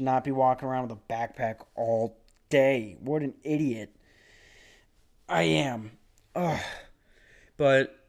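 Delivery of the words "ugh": pained groan. Real, not acted. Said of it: "my back is fucking killing me".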